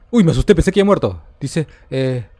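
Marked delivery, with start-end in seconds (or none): 0.1-1.2 fast, louder rush of relief after a scare; startled relief. Real, not acted. Player blurting out after nearly dying in the game, startled and rushed. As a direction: blurt it out like you just escaped.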